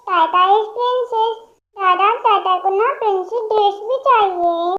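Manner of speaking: put-on a little girl begging for milk and a piggyback; demanding toddler. Childlike patient wants princess dress.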